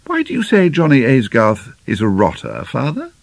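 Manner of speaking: calm, measured question to a father; quite calmly. A narrator's reading. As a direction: ask evenly, without showing feeling. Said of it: "Lena asked quite calmly".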